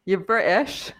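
tentative British accent, questioning rise. Shown as a demonstration. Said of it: "I'll try as well".

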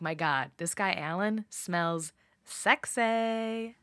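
slow, savored mock swoon; lightly voiced infatuated woman; smitten inner thought. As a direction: draw it out like a hammed-up crush. Voicing Candy's smitten thought.

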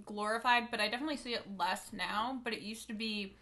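talking around candy in mouth; mouth full. Real, not acted. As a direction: speak through a mouthful of candy. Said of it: "I have candy in my mouth".

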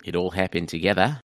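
rough New Zealand-style accent, rising at the end; shitty accent. Shown as a demonstration. Guest has a go after comedy-duo mention, bad New Zealand accent. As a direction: attempt a New Zealand accent, lifting "together". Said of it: "I got a shitty accent".

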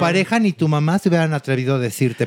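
hammed-up sanctimonious put-down; imitated condescending diva. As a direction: play a patronizing star giving unwanted counsel. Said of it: "Paulina y le dice".

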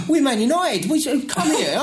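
high-pitched, laughing fan imitation; mock fan, pitched well up; imitated United fan.

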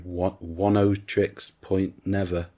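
slow, careful attempt at a musician's name; unsure pronunciation. Real, not acted. Speaker unsure how to say a musician's name, tentative and slow. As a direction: sound out the musician's name slowly, piece by piece. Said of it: "I don't know how you say this name".

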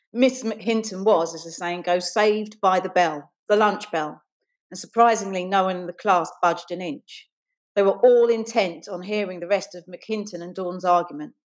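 measured, deliberate read-aloud; reading prose aloud, unhurried; story narration. A narrator's reading. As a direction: narrate the scene with careful phrasing. Reads her story aloud.

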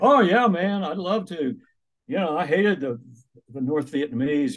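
eager New York taxi driver voice; New York accent. Retold or imitated. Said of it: "He had a heavy New York accent".

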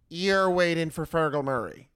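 loud, disbelieving repeat, calling his bluff; incredulous sarcasm. Retold or imitated. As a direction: say it like you know he's lying. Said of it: "Just the way she said it".

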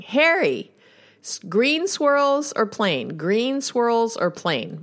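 high, slow calling out across the store; mock call to her husband; drawn-out shopping call, half-sung; retold yelling. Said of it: "I hear her yelling".

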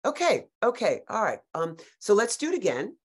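lightly voiced director, slow and patronizing; mildly mimicked director. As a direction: drawl the note out slowly. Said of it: "the director's like".

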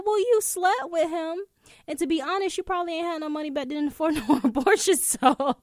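high, loud, fast clapback with a laugh; loud sassy comeback. Retold or imitated. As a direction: fire it back at mom, loud and cheeky. Retold comeback to her mother.

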